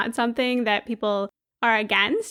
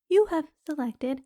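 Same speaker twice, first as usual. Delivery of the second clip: a light take on a calm recorded app voice; meditation app voice; 5 dB quieter than usual. Retold or imitated. Recalling the Headspace app during her crisis, lightly mocked soothing robot voice. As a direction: softly mimic the app's soothing robot voice. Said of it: "I hear this voice go".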